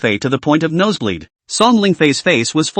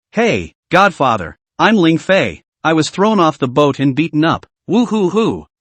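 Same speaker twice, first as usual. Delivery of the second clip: whiny. Acted. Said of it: "In a whiny voice".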